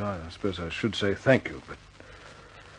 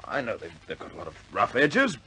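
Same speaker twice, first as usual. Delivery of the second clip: higher and louder, pleading hard; impassioned plea; 5 semitones higher, 5 dB louder than usual. Acted. Pilot pleading with commander for his squadron, impassioned. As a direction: beg to keep his squadron, pushing.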